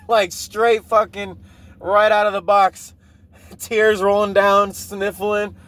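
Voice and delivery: real laughter breaking into high-pitched words; laughing while retelling. Real, not acted. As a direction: crack up mid-story, stretching out the words. Cracking up while retelling his automatic reply.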